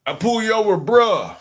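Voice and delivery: loud, high hammed-up cop bruh; mock cop. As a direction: bark it like a street cop. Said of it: "If he was talking about arresting".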